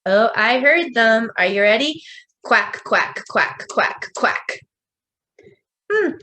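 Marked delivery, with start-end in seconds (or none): 2.4-4.6 duck quack. Shown as a demonstration. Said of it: "What sound does the duck make?".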